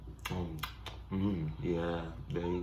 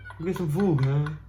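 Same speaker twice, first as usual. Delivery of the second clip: higher pleading animal voice; voicing an animal; 7 semitones higher, 4 dB louder than usual. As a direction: whine for food as the animal. Voicing animal wanting food.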